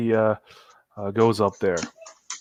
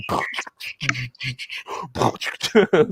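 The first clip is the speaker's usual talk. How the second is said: beatboxing; 3 dB quieter than usual. Acted. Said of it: "going into beatboxing".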